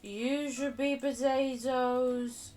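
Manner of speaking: dismayed surprise. Real, not acted. Streamer discovering her potato mistake, dismayed. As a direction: catch the mistake with alarm.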